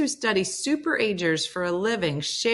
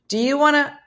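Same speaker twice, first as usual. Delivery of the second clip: teasing lilt; 9 semitones higher, 6 dB louder than usual. Retold or imitated. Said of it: "I didn't get much past".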